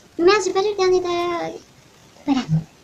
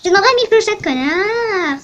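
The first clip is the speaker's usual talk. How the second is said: put-on Russian accent. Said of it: "pourquoi je fais un accent russe?".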